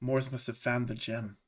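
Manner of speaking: very quiet, hushed, just audible half-whisper. Voicing a character who half-whispers to himself, just loud enough to hear: half-whispering to himself. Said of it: "He whispers to himself".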